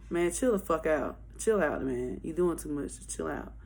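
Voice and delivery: low, soft imitation of a guy; understated "cool it" voice; retold calming down. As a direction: drop it low and quiet, talking her down. Pilot telling her to calm down.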